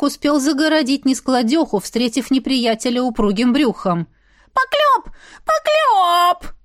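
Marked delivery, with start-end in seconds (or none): 4.5-6.5 shrill shriek, far higher; mother shrieking slander, voice pitched very high. Acted. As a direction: scream it out as a slander. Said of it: "завизжала Прина".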